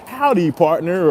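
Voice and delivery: lightly put-on drawn-out cowboy greeting; slow it down like a mock cowboy. Joker showing how a cowboy would sound, mock cowboy. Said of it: "How do a cowboy sound".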